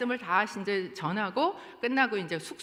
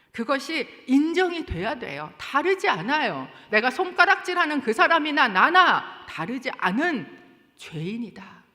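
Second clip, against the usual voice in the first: louder and higher, driving the point home; forceful preaching; 6 semitones higher, 7 dB louder than usual. Acted. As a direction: preach it hard to the congregation.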